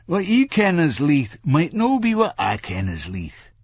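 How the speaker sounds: high-pitched Scots cabbie; driver explaining. A narrator's reading. Driver explains Leith to a nonplussed passenger, pointedly. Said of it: "he explained".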